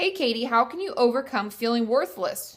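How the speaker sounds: ordinary delivery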